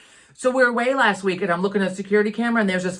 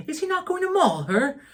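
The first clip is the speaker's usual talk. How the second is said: attempted Scottish accent; 9 semitones higher than usual. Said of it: "I can't do the Scottish accent".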